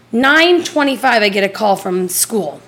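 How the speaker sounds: ordinary talk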